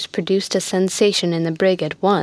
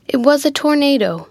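quick to cut in, pitched higher; mildly eager, jumping in with reassurance; eager interruption; 6 semitones higher than usual. A narrator's reading. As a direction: break in eagerly, voice lifted. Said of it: "interrupted Mulford eagerly".

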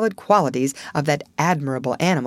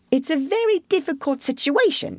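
thoughtful; 10 semitones higher than usual. A narrator's reading. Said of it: "reflecting deeply".

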